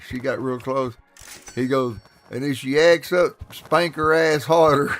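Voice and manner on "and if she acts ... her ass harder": louder, slowing for the punchline; mock stern father. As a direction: imitate a dad laying down the law loudly. Father's loud instruction for child to overhear.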